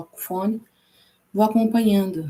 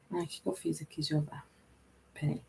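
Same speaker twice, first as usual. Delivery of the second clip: very soft, lower aside; muttering to self; 5 semitones lower, 14 dB quieter than usual. Real, not acted. Teacher searching the app for what she did, muttering to herself. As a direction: murmur it under your breath while searching.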